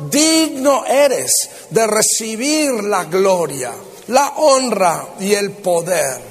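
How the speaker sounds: slow, emphatic Bible reading; scripture proclamation. Real, not acted. Preacher reads Revelation to the congregation, slow proclamation. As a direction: proclaim the verse with drawn-out key words.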